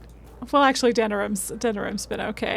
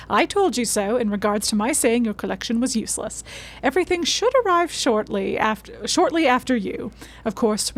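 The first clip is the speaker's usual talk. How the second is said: note read aloud. Acted. Streamer reading a professor's note to viewers, lightly acted read-aloud. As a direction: lively, articulate letter reading.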